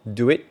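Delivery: "do it" with the final t held back, unreleased; softened final T. Shown as a demonstration. Teacher showing learners English final consonants, "do it" with a muted t. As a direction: let the t at the end of "do it" nearly vanish. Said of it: "la diminution des sons t et d à la fin des mots".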